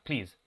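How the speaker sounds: Please said with a clear buzzing z at the end; pleeze, ending on a voiced z buzz; model word please. Shown as a demonstration. Teacher models Please for the class, buzzing the final z. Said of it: "cómo la pronunciarían".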